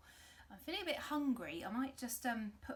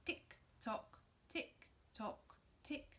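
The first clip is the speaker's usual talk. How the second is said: clock ticking; 5 dB quieter, slower than usual. Shown as a demonstration. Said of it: "we're gonna be a clock and we're gonna go tick".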